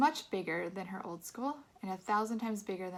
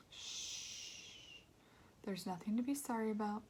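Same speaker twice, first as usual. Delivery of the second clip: put-on soft, hushed comfort to a crying child; barely audible, soothing; hushed whisper; 5 dB quieter, slower than usual. A narrator's reading. Mother soothes her crying son, hushed and soft. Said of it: "so quiet I could barely hear her".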